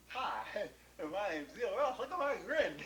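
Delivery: lightly voiced grinning Zeal; big grin. Zeal showing off his new grin. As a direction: talk through a huge showy grin. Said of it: "Let me show you".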